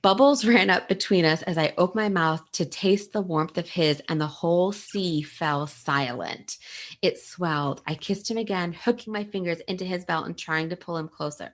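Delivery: reading aloud. Acted. Reading her favorite kiss passage to a friend, savoring. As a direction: read it like you're swooning.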